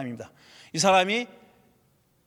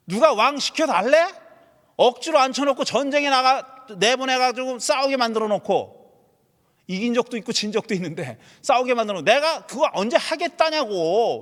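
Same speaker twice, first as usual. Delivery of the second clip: indignant Saul; 4 semitones higher than usual. Retold or imitated. Voicing Saul's indignant complaint.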